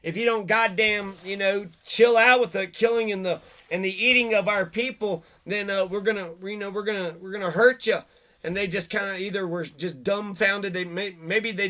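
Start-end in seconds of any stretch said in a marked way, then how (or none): 0.0-8.0 mock warning shout. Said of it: "So they said".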